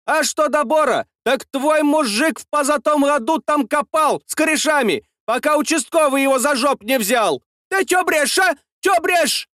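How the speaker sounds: high, shouting scold; quarrelsome shout. A narrator's reading. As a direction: pick a fight, yelling. Saltychikha picking a fight. (Салтычиха скандалит)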